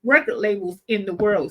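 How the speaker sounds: clearing throat mid-sentence; speaking with a tickly cough; through a cough. Real, not acted. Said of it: "I got a cough now".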